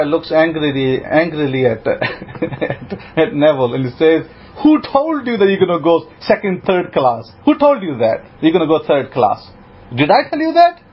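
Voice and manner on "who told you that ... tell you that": the rabbi rebukes his student, building to an outburst; angry rebuke. Retold or imitated. Rabbi scolding Neville for doubting, building angry rebuke.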